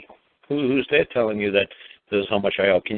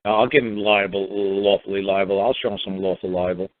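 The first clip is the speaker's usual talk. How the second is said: a touch of vengeful bureaucrat; mock sneering clerk; 5 semitones lower than usual. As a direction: sneer it like a fed-up tax official. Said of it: "they're gonna just say".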